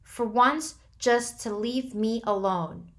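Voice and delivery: loud, breaking cry. A narrator's reading. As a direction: break on the plea. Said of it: "His voice broke".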